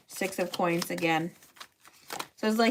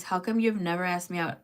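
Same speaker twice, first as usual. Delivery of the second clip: put-on innocent girl voice. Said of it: "Ask him in your innocent girl voice".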